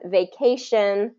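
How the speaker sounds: "vacation" slowly, stress on CA; slow demo, "vacation" as va-CA-tion; stress before the ending. Shown as a demonstration. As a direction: lean on the middle syllable of "vacation". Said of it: "stress the syllable right before that ending".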